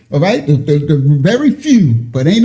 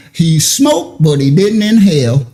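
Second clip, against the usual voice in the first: mock country twang; 3 semitones lower than usual. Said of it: "my country brothers and sisters with a twang".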